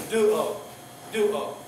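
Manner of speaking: "Duo" with the marked syllable stressed; teacher modelling the stress in "Duo"; stress demonstration. Shown as a demonstration. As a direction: show where the accent falls in "Duo". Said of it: "It's stressing that".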